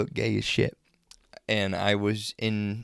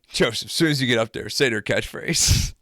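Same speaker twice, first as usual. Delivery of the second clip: loud, raised retold goading; mock heckling; 3 semitones higher, 7 dB louder than usual. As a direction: egg him on loudly, stretching the last words. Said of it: "I was going off on Joseph".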